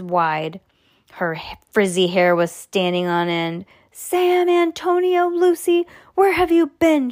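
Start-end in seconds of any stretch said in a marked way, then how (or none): 3.9-7.1 high, loud scolding yell; teacher yelling at missing kids; angry yell. Acted. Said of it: "she yelled".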